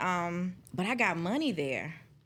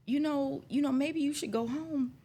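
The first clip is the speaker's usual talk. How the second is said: mock gentle supervisor; 8 semitones higher than usual. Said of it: "and he says to me".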